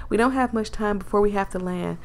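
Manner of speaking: lightly voiced country accent; a mild country twang. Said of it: "I'm messing up her accent".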